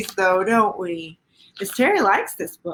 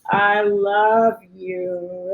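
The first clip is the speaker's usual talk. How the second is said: tender slow I love you; 3 semitones lower, much slower than usual. Acted. Book's key line read tenderly.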